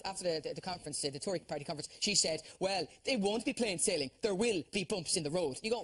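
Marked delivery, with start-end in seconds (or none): 2.6-5.6 slow mock Theresa May speech. Comedian quoting Theresa May on Brexit, slow mock speech. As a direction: drawl it out like a weary prime minister. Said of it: "Theresa May said, and I quote".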